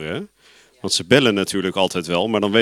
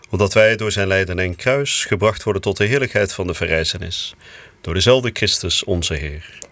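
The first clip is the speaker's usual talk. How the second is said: lower, solemn spoken prayer; closing prayer; 3 semitones lower than usual. Real, not acted. Priest closes the Angelus for listeners, solemn prayer.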